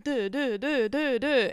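repetitive rising-and-falling "duh" pulses; imitating constant brain noise. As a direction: mimic a nagging looped noise in the head. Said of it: "I'm sick of the constant".

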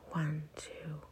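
soft, low-key falling count; exhale count. Shown as a demonstration. Guide counting listeners through a breath out, soft falling count. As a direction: count softly down as the breath empties.

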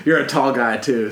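amused repeat, lifted in pitch; repeating for listener. Real, not acted. Repeats it after listener says "Sorry?.

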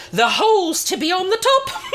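giggling through the words; can't keep a straight face on the innuendo; laughing. Real, not acted. Host giggling at her own cheeky line about holes.

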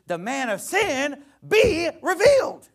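mocking Ebonics line, high, loud and slow. Pastor mocking a pre-trib reading in hammed-up Ebonics. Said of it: "you could say".

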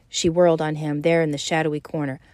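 reading a novel aloud to a class, steady; audiobook-style reading; story narration. A narrator's reading. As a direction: narrate the scene evenly and let the dialogue lift. Author reads novel scene aloud.

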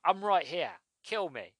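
lightly pleading like a spurned lover; a hint of a jilted partner begging; mock pleading. To the villain as if in a relationship, mock pleading. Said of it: "it's kind of like a relationship".

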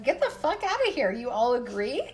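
sharp high scoff, mocking the boys; cynical scoff. A cynical inner voice scoffs at the boys. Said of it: "cynical little ... part of me that was like".

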